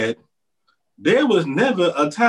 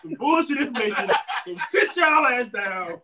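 mock Q reveal; 3 semitones higher than usual. Pretends to be Q.

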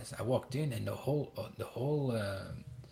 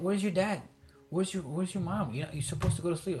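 higher-pitched, indignant imitation of a parent; mock phone scolding; 6 semitones higher than usual. Parent scolding late-night child caller, mock indignant.

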